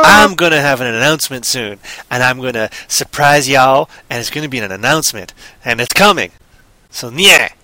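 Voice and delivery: loud teasing announcement; mock E W announcement. Host teasing listeners with a coming announcement, playful hype. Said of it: "That's me doing my E W".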